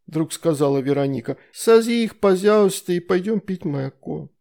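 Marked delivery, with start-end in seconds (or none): 1.5-4.3 put-on 1 lisping little girl. A narrator's reading. Little Veronika asks.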